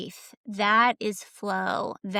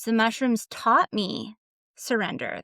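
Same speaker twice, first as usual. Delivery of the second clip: ordinary delivery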